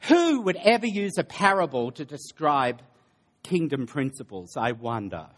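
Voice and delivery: mock wondering, trailing down at the end; sarcastic. Preacher defends allegory to the congregation, sarcastic. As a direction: feign puzzlement with heavy irony. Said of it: "Sorry, I'm being very sarcastic".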